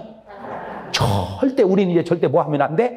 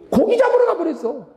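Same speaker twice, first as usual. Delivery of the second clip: laughing mock; 13 semitones higher than usual. Mocking Peter going fishing.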